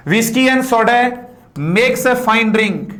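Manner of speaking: slow, every word given weight; slow model reading. Shown as a demonstration. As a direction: read the whole line slowly for the class. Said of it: "सोडा ना सोड". (धीमा आदर्श वाचन)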